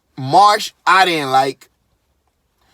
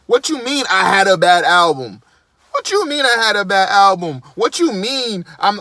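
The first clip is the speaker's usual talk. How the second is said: lightly imitating a whining spoiled kid; mock indignant protest at criticism. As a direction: complain like a kid who can't take criticism. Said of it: "this nigga is like a spoiled kid".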